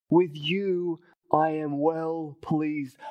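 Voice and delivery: slow, lightly voiced heavenly Father. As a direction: draw it out like a blessing from above. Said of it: "a voice comes from heaven".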